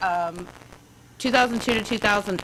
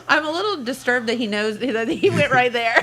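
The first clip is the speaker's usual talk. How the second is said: laughing; 3 semitones higher than usual. Real, not acted. Teases guesser while laughing.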